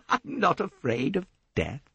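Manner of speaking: high laugh leading into bravado; scornful laugh. A narrator's reading. Jacqueline laughing at Poirot's talk of a price, scornful. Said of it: "Jacqueline de Belfort laughed".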